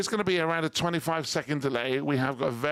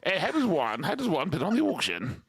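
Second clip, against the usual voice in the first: posh voice; 3 semitones higher than usual. Retold or imitated. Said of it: "'cause Richard's very posh".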